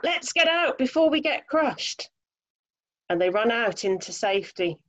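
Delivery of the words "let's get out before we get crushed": high, urgent mock shout at storytelling volume. A narrator's reading. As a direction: act out an alarmed call to flee. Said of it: "the friends shout".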